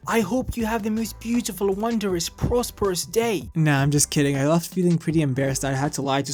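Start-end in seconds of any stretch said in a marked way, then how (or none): 0.1-3.5 most proper English. Retold or imitated. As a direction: savour each word like a fussy aristocrat. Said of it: "with the most proper English".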